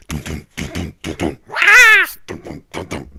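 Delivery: low chanted dum beat; deep drum beat vocals. Pretend. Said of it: "Like that".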